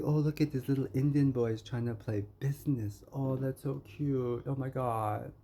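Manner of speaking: a lightly hammed-up sneer at the little boy; mocking condescension. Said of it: "They're just like".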